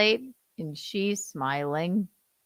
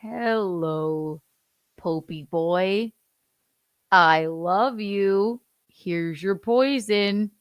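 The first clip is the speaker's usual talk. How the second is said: mock JD voice; 2 semitones higher, 4 dB louder, much slower than usual. Voicing JD in mock dub.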